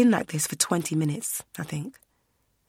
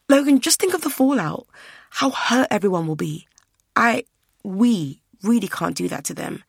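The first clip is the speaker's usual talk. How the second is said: pleading; 4 semitones higher, 4 dB louder than usual. Acted. Verity pleading in the quarrel.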